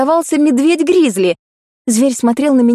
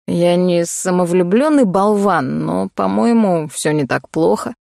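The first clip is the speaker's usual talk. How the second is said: slow, low, self-satisfied; smug low drawl; 4 semitones lower than usual. Acted. Cole shrugs off her horror, low slow smug voice. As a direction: shrug it off, lazy and lower.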